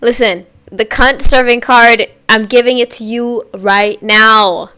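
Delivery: loud sassy declaration; sassy drag queen. Real, not acted. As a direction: proclaim it with diva sass. Hyped reaction to video.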